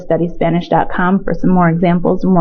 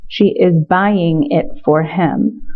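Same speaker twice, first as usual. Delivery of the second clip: slow repeat; slower than usual. Shown as a demonstration. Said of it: "repeated translation".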